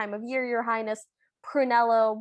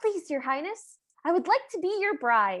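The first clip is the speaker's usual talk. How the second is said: upsettingly sincere, earnest, pitched-up voice; 6 semitones higher than usual. Retelling a film scene as Cinderella: acting out Cinderella, earnest and sincere. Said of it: "she looks earnestly at her stepmother".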